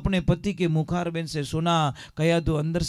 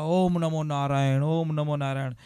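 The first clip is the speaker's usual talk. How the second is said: parrot calling out. Acted. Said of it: "वो जो जोर से बोलता है".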